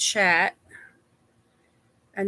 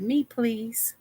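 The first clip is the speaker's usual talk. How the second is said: whispered; 2 semitones higher than usual. Retold or imitated. Host voicing a viewer's chat entry in a whisper. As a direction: whisper it like a shy request. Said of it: "She said".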